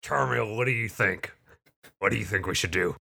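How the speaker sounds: character voice. Acted. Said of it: "let me switch to my character voice".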